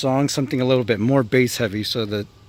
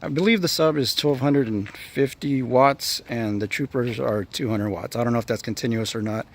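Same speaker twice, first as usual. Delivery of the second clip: winded, slow, with breathy pauses; talking while catching his breath. Real, not acted. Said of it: "I apologize if I sound a little out of breath here".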